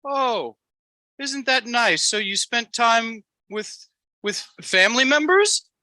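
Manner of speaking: high put-on Amish voice, politely chatty; Amos, Amish impersonation. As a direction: coo approval in a very high Amish caricature. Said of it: "your Amos Amish impersonation".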